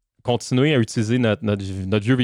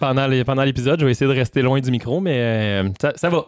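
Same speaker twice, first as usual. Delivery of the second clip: frog voice. Real, not acted. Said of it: "j'ai encore ma voix de grenouille".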